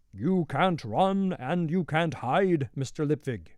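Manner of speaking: slow, booming, bellowing big troll voice. Reading a story, a troll shouts after the escaping mister lipvig: big bellowing troll voice. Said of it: "It sounded like a troll, a big one".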